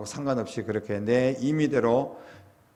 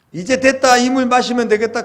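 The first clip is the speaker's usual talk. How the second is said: high, loud burst of hope; relieved excitement; 10 semitones higher, 12 dB louder than usual. Acted. Thirsty Israelites spotting water at last, loudly excited. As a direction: cry out as if the search is over.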